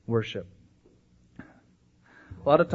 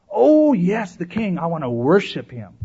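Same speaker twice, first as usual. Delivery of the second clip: mock piety; 2 semitones higher, 3 dB louder, slower than usual. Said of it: "Oh, great talk".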